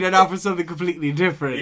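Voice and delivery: Monty Python announcer. Retold or imitated. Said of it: "Monty Python opening".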